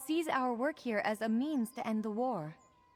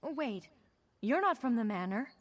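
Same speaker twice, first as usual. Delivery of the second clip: stern healer voice. Acted. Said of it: "Sorry for the stern healer voice".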